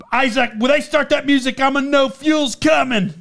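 mildly hyped-up fan imitation; excited fan. Superfan telling friends before the match, excited. Retelling excited fan's announcement.

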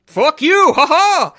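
high, loud mocking jeer with a laugh; gloating bank dude. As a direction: taunt him like a smug banker laughing in his face. Mocking bank dude in retold scene.

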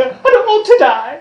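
high, loud mock skeleton whine; skeleton horde. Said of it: "some of the skeleton voices".

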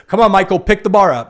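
imitated gym coach shouting encouragement; coach's holler. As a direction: holler like a coach pushing an athlete. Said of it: "they were gonna holler at you".

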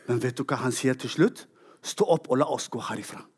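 low, soft, leaning in; hushed reveal. Real, not acted. Telling the congregation Jesus' last words, low and hushed.

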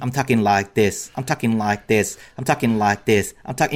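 low, monotonous looped-rap imitation; Kanye. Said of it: "he'll just be like".

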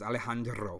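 "Alejandro" with a Spanish pronunciation; Spanish-accented Alejandro. Shown as a demonstration. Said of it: "Nice accent".

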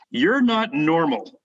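slow, deliberate retold reproach; stern. Coach's wife confronting a fan that night, sternly. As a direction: draw it out sternly. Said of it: "really stern look".

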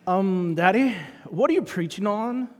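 put-on Australian lilt, rising on Daddy; Australian accent. Daughter asking her preacher dad, mock Australian accent. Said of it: "Suddenly she became Australian".

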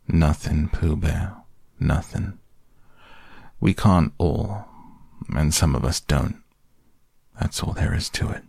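put-on resigned old donkey, trailing away; glum, understated self-pity; Eeyore. Eeyore tells Pooh what is the matter, gloomily resigned.

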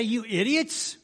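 high, loud, exasperated scolding; shouting at foolish fishermen; mock angry scolding. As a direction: chew them out like a fed-up boss. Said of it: "Jesus didn't say".

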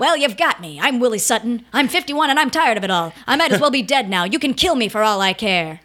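a light, weary gangster voice; old-timey robber voice. Retold or imitated. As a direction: play a tired old-time crook, lightly. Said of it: "this is old-timey robber voice".

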